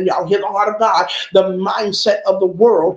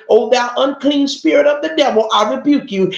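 a lightly hammed-up high, showy rebuke; mock religious rebuke; 4 semitones higher than usual. Shown as a demonstration. Preacher mocks a showy demon rebuke, lightly hammed-up. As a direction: show the wrong, theatrical way to rebuke. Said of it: "because that's not how you rebuke a demon".

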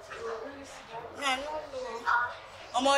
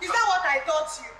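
stern mother-in-law order; stern command; 4 semitones higher than usual. Acted. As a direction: bark at him to sit. Ordering son-in-law to sit.

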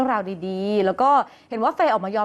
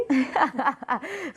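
laugh; 4 semitones higher than usual. Real, not acted. Laughs at the co-host's coo.

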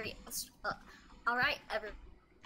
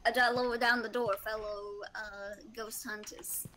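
attempted Australian accent; 6 semitones lower than usual. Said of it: "He sounds so southern".

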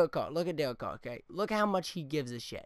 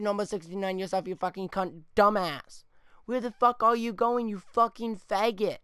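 loud, higher furious yell; angry yell; 4 semitones higher, 3 dB louder than usual. Real, not acted. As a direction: shout at him where he's going. Yelling at his player again.

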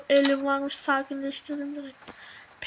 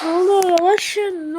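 ordinary delivery

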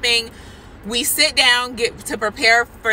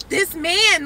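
higher-pitched, mildly freaked-out retelling; retold freaked-out; 7 semitones higher than usual. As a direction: confide mock alarm to a friend. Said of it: "It's freaking me out".

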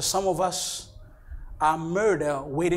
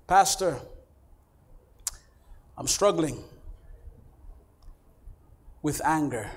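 subdued confession. Acted. Congregant admitting anger to the pastor, subdued confession. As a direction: confess it haltingly, with long pauses.

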